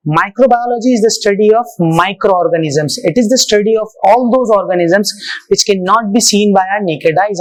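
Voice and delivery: slow, deliberate definition read out for notes; slow dictation. Shown as a demonstration. Teacher dictating a definition to students, very slow. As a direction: spell out the definition for students to copy.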